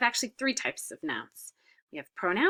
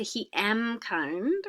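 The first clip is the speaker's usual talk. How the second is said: slow, careful wrong form; slow wrong example; much slower than usual. Shown as a demonstration. Teacher showing students the wrong form, slowly. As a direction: spell out the wrong version slowly. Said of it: "We don't say".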